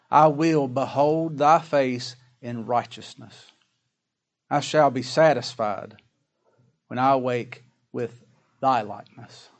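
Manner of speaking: slow, measured verse reading; scripture reading. Acted. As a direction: read the verse out deliberately. Reads the verse aloud slowly.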